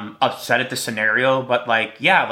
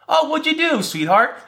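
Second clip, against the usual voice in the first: mock husband. Husband voiced in imagined scene.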